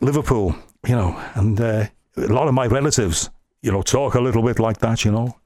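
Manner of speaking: lightly done Liverpool accent; Scouse accent. Shown as a demonstration. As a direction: slip into a touch of homely Scouse. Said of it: "when I do my Scouse accent".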